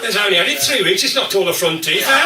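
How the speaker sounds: words squeezed out through laughter, very slow at first; laughing while talking. Real, not acted. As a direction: fight the laugh to get the joke out. Laughing through the vibrator joke.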